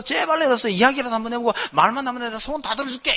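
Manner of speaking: high, fast, urgent pleading; mock begging. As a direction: imitate a police chief begging frantically. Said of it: "빌어가면서".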